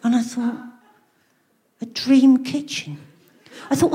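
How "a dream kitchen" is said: incredulous. Retold or imitated. Incredulous repeat of magazine phrase.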